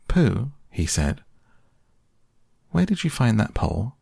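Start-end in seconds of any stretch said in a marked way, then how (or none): 0.1-0.5 put-on higher, earnest child's voice; lightly voiced earnest boy; intent young boy. A narrator's reading. Christopher Robin addresses Pooh intently. 2.7-4.0 put-on higher, earnest child's voice; lightly voiced earnest boy; intent young boy. A narrator's reading. Christopher Robin questions Pooh intently.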